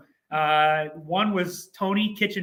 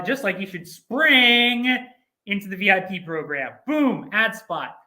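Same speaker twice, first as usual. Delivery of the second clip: mock ad read. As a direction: sell it like a cheesy ad. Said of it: "impromptu advertisement done".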